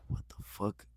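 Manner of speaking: hushed, voiceless disbelief; acted-out whispered astonishment; stunned whisper. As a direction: breathe it out as if in shock. Retells sitting stunned on bed.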